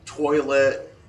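mock spirit-box voice, very slow; imitating eerie device voice. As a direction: stretch it out like an eerie talking gadget. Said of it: "this eerie, echoey voice".

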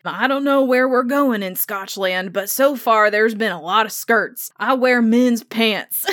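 hint of an American Southern accent, playing a bemused cowboy; American Southern accent, amused and hammed-up; mock American Southern accent. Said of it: "he's talking in a American Southern accent".

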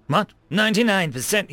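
high, rising disbelief; can't believe the number; incredulous. Acted. Shocked listener repeats figure.

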